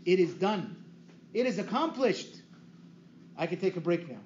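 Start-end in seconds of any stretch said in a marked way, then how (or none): 0.0-2.3 rising proclaimed victory cry; joyful triumphant proclamation. Shown as a demonstration. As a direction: declare it like a shout of triumph. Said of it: "battle cry of victory".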